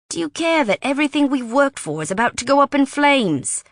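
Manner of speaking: hammering each point home, rising anger; heated British mate. A narrator's reading. Wes lectures Riley about the Saint George raid, heated.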